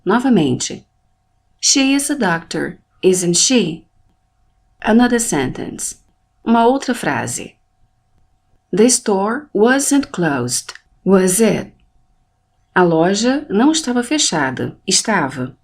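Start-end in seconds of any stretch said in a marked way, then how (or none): 1.6-3.9 tag question with the voice raised on final "she"; rising intonation. Shown as a demonstration. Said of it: "É quando eu elevo a minha voz". 8.7-11.7 slow model sentence, voice raised on final "it"; deliberate, slow statement, then "it" raised as a question; rising intonation. Shown as a demonstration. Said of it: "Eu elevei a minha voz no it".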